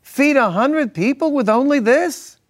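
put-on high incredulous Jewish accent. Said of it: "It's my Jewish accent".

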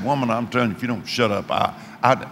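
a hint of menace in a dropped voice; lightly voiced gruff killer. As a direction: growl it low as the fed-up kidnapper. Retold killer losing patience.

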